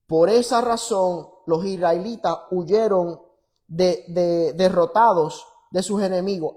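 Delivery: loud, emphatic Bible reading; forceful pulpit reading with measured pauses; scripture reading. Acted. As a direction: proclaim the verse firmly, phrase by phrase. Reads scripture aloud forcefully.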